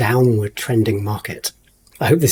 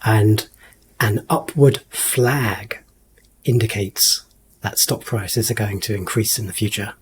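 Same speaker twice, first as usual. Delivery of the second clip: magician voice; 2 semitones lower than usual. Acted. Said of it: "I'm saying all of this in my, like, magician voice".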